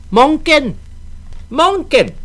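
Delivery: high mocking shout of a child; shouted taunt. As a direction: yell his name to tease him.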